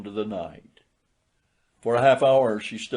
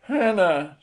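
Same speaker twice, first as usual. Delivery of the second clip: meek; 8 semitones higher, 4 dB louder than usual. A narrator's reading. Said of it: "said he meekly".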